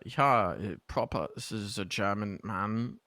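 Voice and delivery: slow, deliberate German accent; proper German man. Shown as a demonstration. Caster demonstrates accents to co-caster, proper German man's accent. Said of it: "I have a few German accents".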